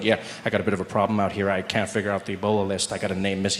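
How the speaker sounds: a hint of a stressed inspector; health official. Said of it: "He's like".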